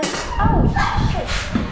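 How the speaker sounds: sudden high startled oh; surprised curse. Real, not acted. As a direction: blurt it out in surprise. Ugali mishap while serving.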